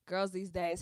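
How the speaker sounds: strong country accent. Real, not acted. Greeting live viewers in a country accent. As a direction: lay the country accent on thick. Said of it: "the country accent is on ten".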